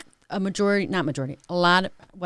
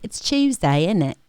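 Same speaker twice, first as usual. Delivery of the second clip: mock British accent. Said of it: "British people be like".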